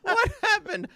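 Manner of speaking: high laughing squeal of the quote. Retold or imitated. Laughing at the clip's odd answer, high and giggly. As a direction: crack up while quoting it. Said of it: "He doesn't know what happened".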